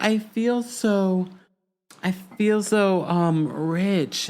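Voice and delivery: slow, drawn-out mock posh gush; imitating Lisa feeling rich. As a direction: savour every word like new money. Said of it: "Lisa was just like".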